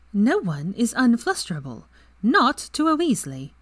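sure of herself, drawing it out; proud young woman boasting of her family; determined Ginny. A narrator's reading.

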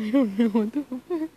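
high, squeaky real laughing; crying with laughter; helpless laughter. Real, not acted. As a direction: lose it completely. Reader dissolving into laughter.

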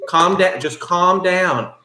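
drawn-out firm calm down. Acted. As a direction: settle him down with firm patience. Clerk calms angry customer.

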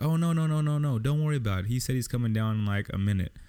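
high, quick brush-off; lightly voiced woman waving off help; imitating the woman. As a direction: wave him off in a mock woman's voice.

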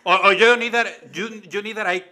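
hammed-up outrage in broken English; playful loud outburst at Vince McMahon; mock indignant rant.

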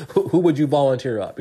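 amused disbelief, laugh on who. Real, not acted. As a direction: let the laugh carry the question. Laughing at absurd question.

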